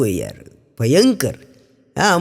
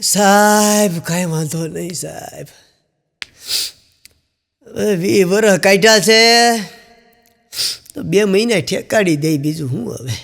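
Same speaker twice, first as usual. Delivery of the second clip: relieved calm reply. Retold or imitated. Husband calmly answers the doctor's grim news, relieved and resigned. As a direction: sigh it out as if relieved. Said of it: "હાવ નિરાતે શ્વાસ લઈને".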